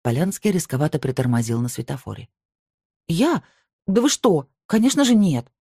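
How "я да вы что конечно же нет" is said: higher, louder, gasping protest; breathless denial. A narrator's reading. Sofia gasps a louder, higher denial at the medium. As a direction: choke out the denial, outraged. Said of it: "задохнулась она".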